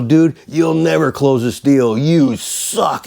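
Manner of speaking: mock-yell it, stretching each jab; retold yelling taunt. Host taunting the agent on the phone, slow mock yelling. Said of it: "and I'm yelling at him".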